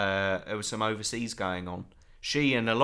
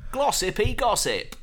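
high playful; 12 semitones higher, 6 dB louder than usual. Acted. Playful wordplay on the name.

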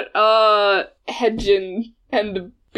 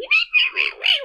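mouse squeak. Acted. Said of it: "a little mouse squeak going".

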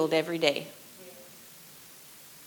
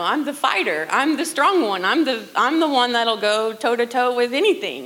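louder, higher, puffed-up husband boast; mock the husband's tough-guy bravado, louder; proud husband; 4 semitones higher, 5 dB louder than usual. Husband voiced insisting he's the fighter.

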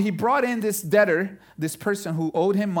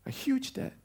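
whisper; 7 semitones higher, 8 dB quieter than usual. Acted. Preacher drops to whisper for emphasis.

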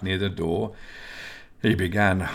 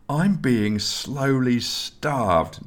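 slow, higher-pitched whine; complaining; 6 semitones higher, much slower than usual. A narrator's reading. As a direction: drag it out as a complaint. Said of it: "Nelson complained".

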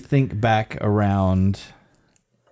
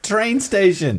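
high-pitched tourist with two words; clueless tourist; 8 semitones higher, slower than usual. Pretend. Co-host playing new tourist who learned few words, high-pitched mock tourist. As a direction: play a lost tourist in Germany, pitched up.

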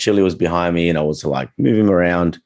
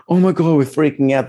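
mock panic; 9 semitones higher than usual. Imitating panicking dog owner.

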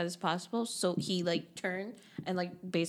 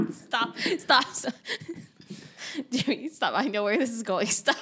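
laughing; 4 semitones higher, 3 dB louder than usual. Real, not acted. Laughing protest at friend's joke.

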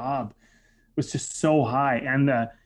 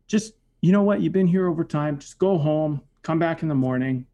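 conciliatory; 2 semitones higher than usual. Retold or imitated. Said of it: "total tone just totally changed".

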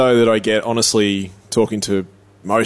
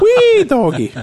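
hammed-up whoop; 4 dB louder, slower than usual. Joking Scottish Morrison reveal.

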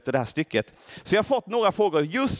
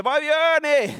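crying out; 7 semitones higher than usual. Acted. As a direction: plead with the crowd to stop. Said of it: "rusade in bland folket och ropade".

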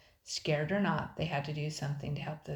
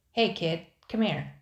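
pirate calling out; 7 dB louder than usual. A narrator's reading.

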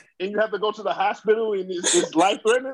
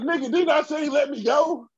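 mock pissed-off father; 6 semitones higher than usual. Old man scolds his children for reviving him, mock annoyed. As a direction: scold them for saving you, hammed up. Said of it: "I'll be pissed off".

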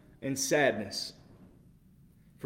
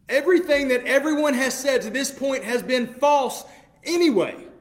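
higher and louder, incredulous and worked up; heated exasperated rant; 8 semitones higher, 6 dB louder than usual. Real, not acted. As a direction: pour out disbelief at the high priest. Heated rant at the high priest.

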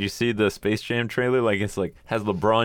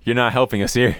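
laughing exasperation; 3 semitones higher than usual. Retold or imitated. Mock exasperated director.

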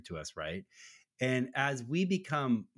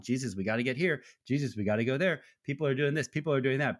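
hurried disciples; 2 semitones higher, faster than usual. Retold or imitated. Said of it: "trying to hustle him along".

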